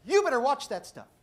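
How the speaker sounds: loud, high you then a weak warning; comic tough-guy warning; mock threat. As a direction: puff up and then fizzle. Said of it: "I said".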